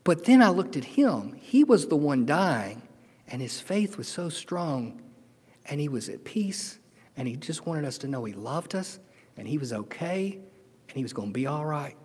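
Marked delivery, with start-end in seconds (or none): 3.3-11.9 holding back tears. Real, not acted. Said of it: "I'll try to say this without crying".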